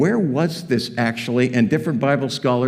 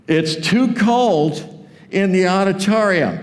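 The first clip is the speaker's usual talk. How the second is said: petty complaint; 6 semitones higher, slower than usual. Retold or imitated. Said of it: "complain about something they didn't like in church".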